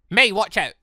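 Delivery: loud urgent call; yelled alarm, watch out; warning shout. Acted. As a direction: shout a warning to a friend in danger. Sudden attack warning.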